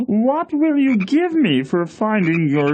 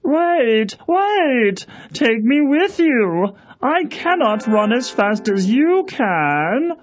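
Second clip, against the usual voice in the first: calling after her. Acted. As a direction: call out so she stops. Frog calling after fleeing princess.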